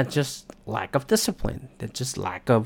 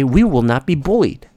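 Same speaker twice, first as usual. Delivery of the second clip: defiant declaration; 7 dB louder than usual. Retold or imitated. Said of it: "and say".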